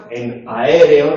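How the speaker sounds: "aéreo" drawn out slowly, each vowel its own syllable; four-syllable hiatus. Shown as a demonstration. Teacher showing hiatus to class, four-syllable "aéreo". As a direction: say "aéreo" slow and loud in four separate syllables. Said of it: "En aéreo tenemos cuatro sílabas".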